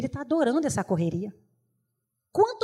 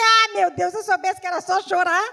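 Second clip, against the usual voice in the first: loud, high, laughing through it; laughing exclaim; 5 semitones higher, 5 dB louder than usual. Retold or imitated. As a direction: laugh at your own trick. Retold joke about crying to mother. (rindo alto da própria esperteza)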